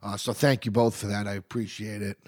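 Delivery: stuffy nose from a cold; nasal voice. Real, not acted. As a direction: talk through a sniffle. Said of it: "You guys have had this sniffle".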